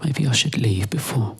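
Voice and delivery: hushed, sneaking whisper; whispering before slipping away. Acted. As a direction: breathe it so no one hears. Sneaking out, fear being caught.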